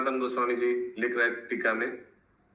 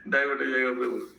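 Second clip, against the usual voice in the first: a short laugh, then divert हो जाएगा said amused; faster than usual. Real, not acted. Teacher laughing as he warns the student off the topic. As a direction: chuckle through the warning to the student.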